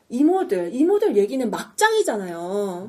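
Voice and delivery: exasperated but still polite appeal; mildly frustrated imitated protest, drawn out; acted frustration. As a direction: reason with them, losing patience slowly. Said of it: "막 이렇게 답답해하면서".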